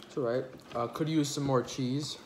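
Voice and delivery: chewing while talking; talking between bites of pizza; mouth full. Real, not acted. Seen 1: bites pizza at 0.8-1.8 s, then talks with food in mouth.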